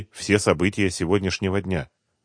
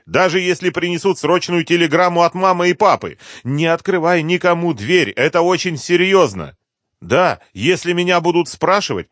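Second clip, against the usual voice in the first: higher, louder, pressing warnings to grandma; urgent granddaughter; 10 semitones higher, 8 dB louder than usual. Acted. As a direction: drive every order home, don't let her argue. Urgent instructions by phone.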